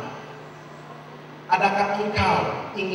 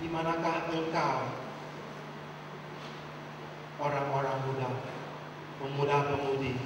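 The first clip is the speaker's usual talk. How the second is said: much softer, yearning call; tender longing; 3 semitones lower, 6 dB quieter than usual. Shown as a demonstration. Preacher voicing God calling the youth, soft longing. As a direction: gently call out to lost young people. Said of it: "dengan penuh kerinduan".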